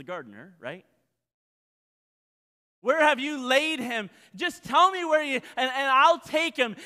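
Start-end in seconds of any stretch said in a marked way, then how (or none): 2.8-6.8 high, loud, desperate plea; pleading Mary. Acted. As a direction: beg to know where he is. Preacher voices Mary's desperate plea.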